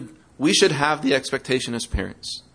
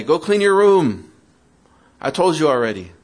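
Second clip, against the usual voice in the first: exasperated parent order; 3 semitones higher, 4 dB louder than usual. Pretend. Exasperated parent, third time.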